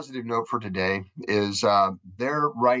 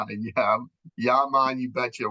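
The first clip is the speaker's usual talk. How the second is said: mock Jamaican "yeah, man"; playful island-style "you betcha"; light imitation of Jamaican folks; Jamaican Minnesota phrase; 3 semitones higher than usual. Shown as a demonstration. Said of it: "I want to hear".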